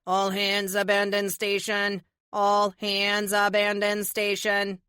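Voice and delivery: slow, even automated alert; computer alarm voice. Acted. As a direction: repeat it like a machine. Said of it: "a computerized voice says".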